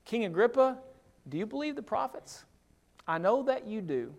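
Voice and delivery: gently ask, then quietly affirm; soft sincere question; earnest appeal. Retold or imitated. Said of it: "Verse twenty-seven".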